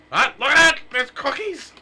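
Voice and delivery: high, loud delighted cry; excited. Real, not acted. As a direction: shout with sudden delight. Spots cookies, loud excited cry.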